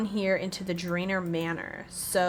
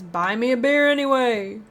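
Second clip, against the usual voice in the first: put-on Western or Southern accent; 5 dB louder than usual. Old soak insists on his beer, Southern accent. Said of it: "I don't know why I think he's Western".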